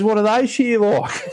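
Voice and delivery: high, drawn-out impression of a keen lad; imitated young kid. Young novice quizzes mentor about the gear, high imitated kid voice. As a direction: mimic the kid's way of talking, pitched right up. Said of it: "This is how he talks".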